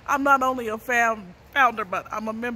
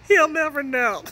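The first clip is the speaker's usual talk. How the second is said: laughing; 3 semitones higher than usual. Real, not acted. Giggling at her own story.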